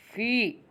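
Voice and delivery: "फी" held long; teacher's sustained model of "फी"; drawn-out syllable. Shown as a demonstration. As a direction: stretch the vowel of "फी". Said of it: "जो लंबा खींचता है ना".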